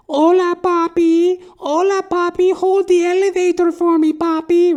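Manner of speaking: put-on camp come-on from a drunk neighbour; high mocking falsetto flirt; drag queen impression.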